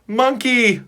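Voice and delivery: high, loud terrified scream. A narrator's reading. The orange cat screaming at the sight of the ape. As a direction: shriek in panic. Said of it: "screams the orange cat".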